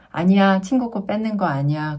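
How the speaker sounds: mildly scary parental scolding, firm first word; slightly stern. Acted. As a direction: correct the child with a touch of sternness. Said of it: "그것도 약간 무섭게".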